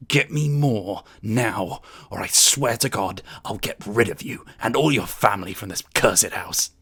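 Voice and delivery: posh lord hissing a threat at the servant; hushed angry threat. Acted. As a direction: spit the words through a hush. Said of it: "hushed voice ... spitting through his words".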